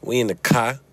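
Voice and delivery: light Chicago accent on "car"; Chicago-style "car". Shown as a demonstration. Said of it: "Like how we say it in Chicago or Boston".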